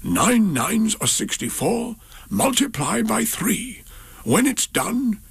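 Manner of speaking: high breathy whisper, slow and secretive; an emperor's secret whispered chant; whispered nonsense rhyme. Acted. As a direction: whisper the silly sum to the sky. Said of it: "he would whisper and whisper".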